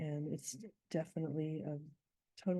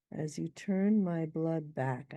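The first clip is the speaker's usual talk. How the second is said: slow, with weight on "turn" and "blood back"; slowed scanning read; stressed scansion; 4 dB louder, slower than usual. Shown as a demonstration. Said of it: "these both have to be wands".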